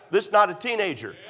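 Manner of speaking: preacher's emphatic restatement, leaning on "not"; emphatic repetition. Real, not acted. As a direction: drive home the word "not". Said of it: "Let me emphasize".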